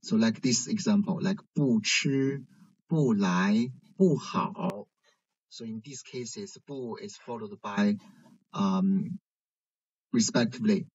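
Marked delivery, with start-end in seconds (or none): 1.6-4.9 不 kept falling in 不吃, 不来, 不好; each 不 in fourth tone before 吃, 来, 好; 不 without tone change. Shown as a demonstration. Teacher giving examples, 不 unchanged and falling in each. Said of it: "there's no change in tones".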